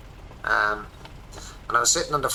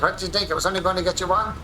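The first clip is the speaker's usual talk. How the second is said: wife's line, pitched higher and teasing; light higher voice for the wife, mock-indignant; quoting wife; 7 semitones higher, faster than usual. Wife teasing him about the gift, a touch higher and mock-indignant.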